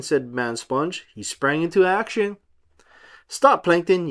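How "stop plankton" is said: yelled. Acted. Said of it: "yelled Man Sponge".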